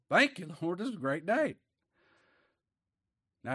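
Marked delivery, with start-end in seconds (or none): 0.1-1.6 higher, acted praise to God; joyful praise. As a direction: call out thanks in happy praise. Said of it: "We call to him to praise him".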